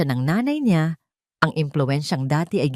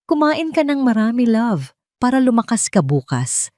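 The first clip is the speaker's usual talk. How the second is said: tender coaxing; 6 semitones higher, 3 dB louder than usual. Retold or imitated. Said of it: "laging sabi ni Amihan noon".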